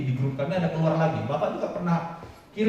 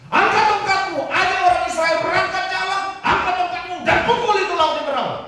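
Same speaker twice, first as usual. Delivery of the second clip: much higher and louder stern command; God commanding; 12 semitones higher, 7 dB louder than usual. Acted. God commands Musa to use his authority, high and loud. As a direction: bark orders like a commander. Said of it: "Tuhan di sini bilang kepada si Musa".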